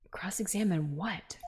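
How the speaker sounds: quick whispered aside; hushed inner thought; whispering. Acted.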